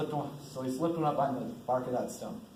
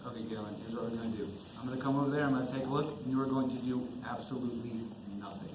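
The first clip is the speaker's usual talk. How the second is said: calm reassurance; 3 semitones lower, 5 dB quieter than usual. Acted. Major calms man on mine.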